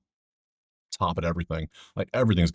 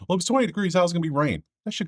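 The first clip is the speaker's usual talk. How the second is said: exasperated disbelief; 9 semitones higher, faster than usual. Real, not acted. Arguing with the weather forecast.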